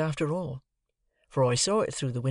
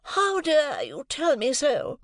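high, slow, outraged retort; indignant retort; 13 semitones higher, 4 dB louder, slower than usual. A narrator's reading. Mother retorting to Jane, high and indignant. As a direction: hurl it back at the child. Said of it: "retorted Missus Pocket".

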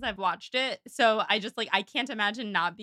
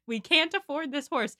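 mock strained politeness through a smile; forced smile; 5 semitones higher than usual. Imitating Eleanor questioning Marianne over the horse, through a forced smile. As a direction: protest while keeping up a smile. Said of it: "trying to keep smiling".

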